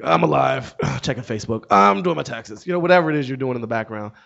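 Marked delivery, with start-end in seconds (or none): 0.0-2.7 half-listening phone mumble to a parent; disengaged grunting. Retold or imitated. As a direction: toss out distracted grunts. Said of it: "monosyllabic, sort of disengaged grunting".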